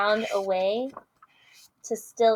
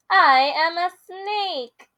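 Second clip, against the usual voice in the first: matter-of-fact snake; 8 semitones higher, 6 dB louder, slower than usual. Acted. Snake states the obvious.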